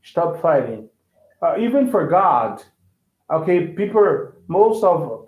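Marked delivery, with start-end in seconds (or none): 0.0-0.9 British accent. Shown as a demonstration. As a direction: lower British "Stop fighting". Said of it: "Okay, British".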